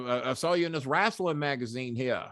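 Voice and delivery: Southern general, only half put on. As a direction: lightly imitate a Southern general. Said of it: "he talked like a Southern general".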